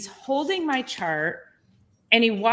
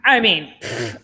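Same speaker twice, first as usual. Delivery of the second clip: scoffing; 3 semitones lower, 5 dB louder than usual. Retold or imitated. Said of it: "and he's scoffing at".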